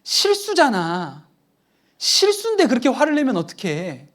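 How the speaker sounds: imitating a son's high-pitched shout; thunderbolt outcry. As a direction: yell it at dad from the back seat. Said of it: "벼락처럼 뒤에서 우리 아들이".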